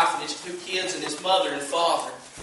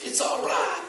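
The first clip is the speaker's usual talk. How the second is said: tender reassurance; 12 semitones higher than usual. Acted. Preacher voices the comforting call.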